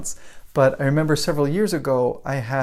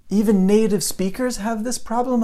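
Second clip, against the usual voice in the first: higher-pitched, wondering question; retold surprise; 7 semitones higher than usual. Student hearing teacher's essay story, amazed. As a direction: imitate a student's dawning disbelief.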